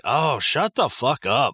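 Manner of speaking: slow, fed-up groan of a retort; mock annoyed snap at the mom; exasperated. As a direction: drag it out like you're sick of her. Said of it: "And I'm like".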